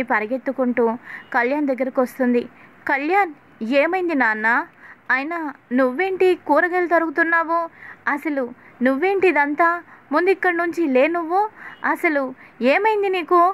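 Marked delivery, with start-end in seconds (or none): 2.9-13.4 rising higher, anxious questions to her son; a worried mother's flustered scolding, climbing up; alarmed mother. Acted. Mother rushing to her hurt son, alarmed and rising.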